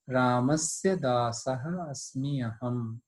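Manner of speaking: slow, measured shloka chant; Sanskrit recitation. Shown as a demonstration. Teacher recites the Sanskrit verse for students, slow chant. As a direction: recite the verse slowly and evenly.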